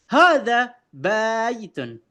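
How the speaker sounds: "baitun" with the ba drawn out long. Shown as a demonstration. Teacher shows a wrong long vowel to students, drawn out. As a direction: stretch the ba in "baitun". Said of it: "saya baca ba-nya panjang".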